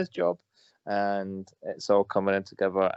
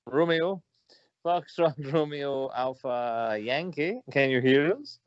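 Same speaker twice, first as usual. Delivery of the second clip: mock radio operator; 4 semitones higher than usual. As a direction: hail the missing friend like a radio operator. Mock radio call to absent friend.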